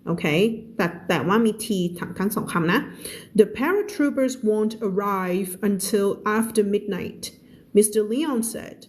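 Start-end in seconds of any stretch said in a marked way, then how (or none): 3.4-8.8 slow, careful story reading for learners; measured teacher's narration; slow read-aloud. Acted. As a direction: read the story word by word, clearly.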